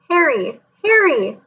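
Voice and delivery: high calls of his name from far away; distant calling voices. A narrator's reading. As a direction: call his name as if from a dream. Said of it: "other voices crying".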